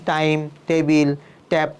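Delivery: "টাইম, টেবিল, ট্যাপ" with dry hard t; no puff on any t in "টাইম, টেবিল, ট্যাপ"; unaspirated T. Shown as a demonstration. Teacher showing what sounds bad, plain t in "টাইম, টেবিল, ট্যাপ". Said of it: "এইভাবে বলি তাহলে".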